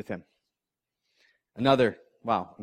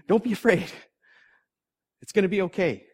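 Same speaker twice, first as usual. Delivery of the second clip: acted reassurance; 7 semitones higher, faster than usual. Angel reassures terrified people.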